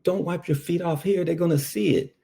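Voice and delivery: partner's warning, pitched high; hushed, pushy warning from a nervous partner; urgent partner. Retold or imitated. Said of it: "And he was like".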